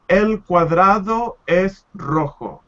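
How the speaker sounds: slow, clear "El cuadrado es rojo"; slow, careful reading aloud; slow model sentence. Shown as a demonstration. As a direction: read it slowly for the student. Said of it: "It says".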